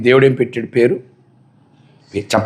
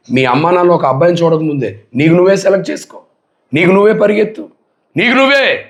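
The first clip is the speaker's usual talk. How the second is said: tempting devil voice; 3 semitones higher than usual. Acted. The tempter urging the young listener to run wild, rising coaxing voice. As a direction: egg them on like the devil whispering in their ear.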